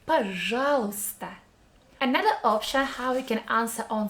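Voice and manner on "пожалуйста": Пожалуйста in one flow, "й" barely heard; whole word together. Shown as a demonstration. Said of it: "pronounce the whole word together".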